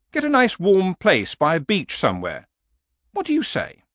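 high horse voice, wheedling; coaxing horse. Acted. Horse urges barbarian to retire somewhere warm, high and coaxing. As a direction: coax the old man, pitched well up.

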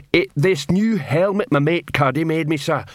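simple troll boasting happily; a troll showing off his helmet; proud troll voice. Acted.

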